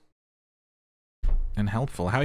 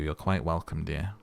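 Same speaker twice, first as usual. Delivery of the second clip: put-on gentle old lady; 4 semitones lower, 3 dB quieter than usual. Voicing kindly old lady.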